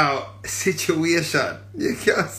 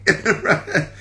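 wailing shout; 9 semitones higher, much slower than usual. Pretend. Crying out the catchphrase to her followers. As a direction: wail it like a mock lament.

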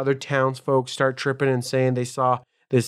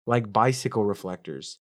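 deadpan ominous punchline; 5 semitones lower, 4 dB quieter than usual. Shown as a demonstration. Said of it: "do the part with the joke".

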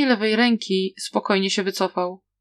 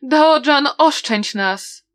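raised, higher-pitched imitation of begging victims; acted-out cry for mercy; mock pleading scream; 6 semitones higher, 4 dB louder, much slower than usual. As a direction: mimic a plea for mercy, loud then falling. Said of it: "na pewno wrzeszczeliby".

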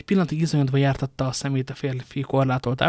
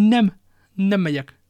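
slow, higher, trembling refusal; fearful refusal; 6 semitones higher, 8 dB louder, slower than usual. Acted. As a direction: dig in out of pure fear. Husband refuses out of fear. (lassú, rémült elutasítás)

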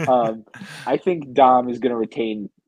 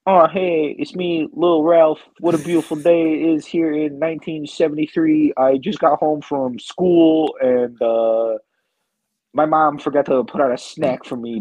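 Lil Ralph; 4 semitones higher than usual. Acted. Son mocking his dad as a child, higher kid voice. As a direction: play dad as a hammed-up schoolkid. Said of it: "I do a character called Lil Ralph".

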